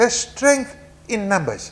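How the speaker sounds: strength in numbers stressed, wide swooping pitch.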